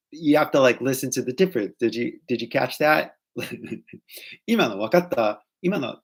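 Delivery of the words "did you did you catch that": casual Californian "did you catch that", last word rising; drawn-out Californian lilt on "did you catch that"; Californian accent. Shown as a demonstration. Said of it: "if you guys wanna learn Californian".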